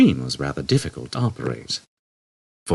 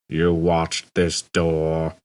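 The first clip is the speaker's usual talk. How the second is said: muttered; much slower than usual. Acted. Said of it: "he muttered".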